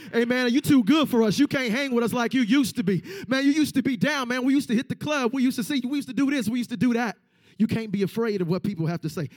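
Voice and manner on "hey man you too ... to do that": mocking old friends.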